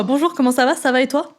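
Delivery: high-pitched replay of a beginner's exchange; mimicked small talk. Replaying the limited French exchange. (petit dialogue imité, voix aiguë)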